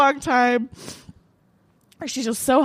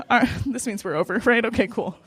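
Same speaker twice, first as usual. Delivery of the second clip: businesslike; 2 semitones lower than usual. Retold or imitated. Woman closing a handshake breakup with her ex, businesslike. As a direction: wrap up a breakup like a meeting. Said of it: "like, a business meeting".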